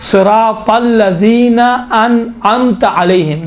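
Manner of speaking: slow recitation, انعمت with a clean hamza then throaty ain; distinct hamza and ain. Shown as a demonstration. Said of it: "امت میں عین ہے".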